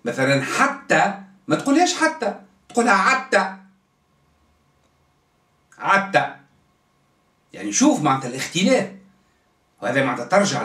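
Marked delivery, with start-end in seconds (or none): 2.9-6.3 عتى with ع instead of ح; tribal pronunciation. Shown as a demonstration. Teacher showing students how a tribe says حتى, ع for ح. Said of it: "تبدل الحاء بعاء".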